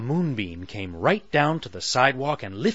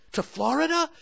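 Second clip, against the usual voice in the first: curious Sally; faster than usual. Acted. Sally voiced by narrator.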